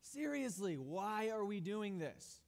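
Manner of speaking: mild mock teen whine; whiny teenager. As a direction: drag it out like an eye-rolling teenager. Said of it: "a teenager who's like".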